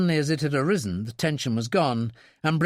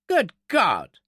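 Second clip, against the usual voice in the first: shocked outburst, higher pitch; startled exclamation; 7 semitones higher, 4 dB louder than usual. A narrator's reading. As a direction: exclaim it in sudden disbelief. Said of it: "he ejaculated".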